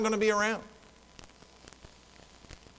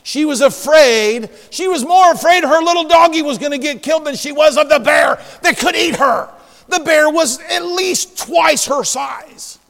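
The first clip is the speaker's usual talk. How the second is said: louder, higher pulpit exhortation; forceful preaching; 9 semitones higher, 6 dB louder than usual. Acted. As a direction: preach it with emphatic punches.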